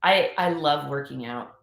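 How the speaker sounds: throat still catching; choking on a drink. Real, not acted. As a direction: voice strained after coughing. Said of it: "choking here".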